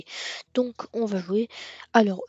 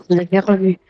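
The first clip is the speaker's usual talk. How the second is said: insistent loud denial; 9 dB louder than usual. Real, not acted. Hiding something from viewers.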